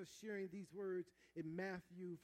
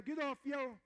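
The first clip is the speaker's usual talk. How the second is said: shouted higher and louder still; preacher pushing the congregation to shout louder; louder call; 8 semitones higher, 9 dB louder than usual. Real, not acted. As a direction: build the chant up. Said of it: "One more time".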